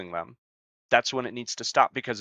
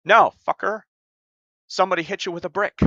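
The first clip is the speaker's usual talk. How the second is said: angry outburst; 8 semitones higher, 6 dB louder than usual. Real, not acted. Rejecting the dismissive narrative.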